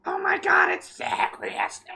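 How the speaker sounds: breathless awestruck fangirl whisper; fangirl squeal. Pretend. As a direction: gush like a starstruck fan. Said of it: "Like a fangirl".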